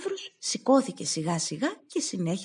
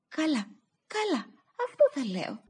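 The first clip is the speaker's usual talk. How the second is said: crying; 9 semitones higher than usual. Acted. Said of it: "φώναζε ο Σταύρος".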